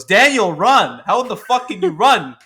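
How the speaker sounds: loud, high-pitched shouted imitation; mock movie yell. Reviewer mimicking the stupidest line of the film, mock yell. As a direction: yell it like a hammed-up film heroine. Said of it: "Georgina Campbell's character goes".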